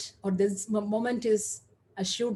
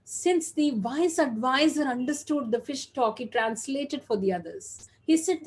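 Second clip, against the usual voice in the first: lightly animated storyteller voice; storytelling with gently raised energy; story narration; 3 semitones higher, 4 dB louder than usual. A narrator's reading. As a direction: tell it like a fable, a little lifted. Tells a fable to an audience.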